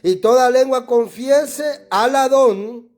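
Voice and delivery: loud preacher reading Hebrew text; reading scripture. Shown as a demonstration. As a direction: read the verse with weight, pausing on Yahshua. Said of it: "En hebreo te lo voy a leer".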